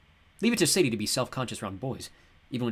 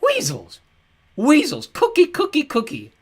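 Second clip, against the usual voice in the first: high, loud senile babble; batty old god; 12 dB louder, slower than usual. A narrator's reading.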